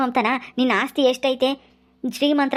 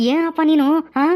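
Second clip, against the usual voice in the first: angry reproach; 3 semitones higher than usual. Acted. Son confronts his drunk father.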